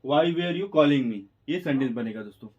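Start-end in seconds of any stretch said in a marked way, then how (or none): 0.1-1.2 very slow, every word spaced apart; slow dictation. Shown as a demonstration. Teacher dictating the English sentence, very slow. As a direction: spell it out in time so students can write. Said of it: "English जो वाक्य बनेगा".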